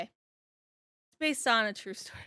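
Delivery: drawn-out, dawning quote; slow realization. Retold or imitated. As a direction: stretch it out as it sinks in. Replays own reaction to it.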